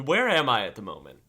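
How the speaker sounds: usual speaking voice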